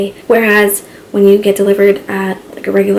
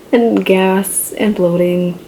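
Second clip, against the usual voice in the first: deadpan; much slower than usual. Real, not acted. Wry slowed list of symptoms.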